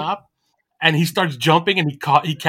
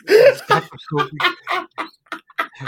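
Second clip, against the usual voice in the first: words pushed out through a laugh; 5 dB louder, much slower than usual. Real, not acted. Laughing at the joke.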